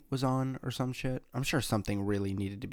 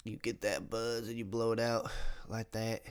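words squeezed out after inhaling; holding in smoke; 3 dB quieter than usual. Shown as a demonstration. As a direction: talk while holding in a lungful.

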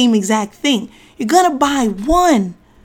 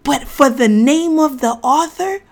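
ordinary talk, nothing marked

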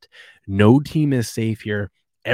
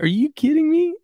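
much higher, louder outraged yell; incredulous catcher; 5 dB louder than usual. Retold or imitated. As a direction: shout it like a catcher who can't believe it. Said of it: "He's like".

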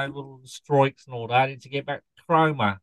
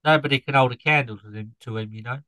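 put-on Norfolk scarecrow accent. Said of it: "explain the accent".

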